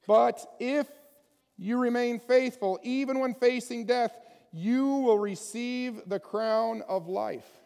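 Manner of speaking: loud, slow proclamation of the promise; preacher booming scripture, slowing on the final words; proclaiming. Acted. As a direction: ring out the promise of the crown.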